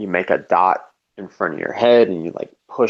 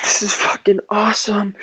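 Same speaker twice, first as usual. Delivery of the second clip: breathless whispered awe; hushed amazed whisper; awed whisper; 11 semitones higher than usual. Retold or imitated. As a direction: whisper it like a secret thrill. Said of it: "And then I was like".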